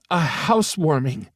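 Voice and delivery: high, bright burst of delight; excited mother. Acted. Mother at hospital bedside planning a party, excited. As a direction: exclaim it like a party idea.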